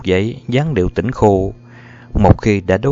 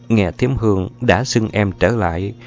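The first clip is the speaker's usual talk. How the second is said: plain reading voice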